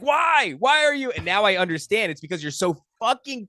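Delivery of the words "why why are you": much higher, louder disbelieving whine; exasperated viewer. Retold or imitated. A frustrated horror fan pleading with the screen, much higher and exasperated.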